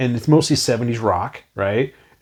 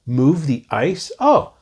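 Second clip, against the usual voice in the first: puzzled realization; 2 semitones higher, much slower than usual. Retold or imitated. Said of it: "I was like".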